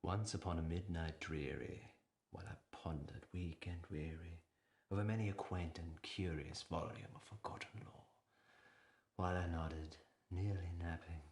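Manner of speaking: measured dramatic poem reading; poem recitation. Acted. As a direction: recite it like a haunted verse. Recites Poe's The Raven.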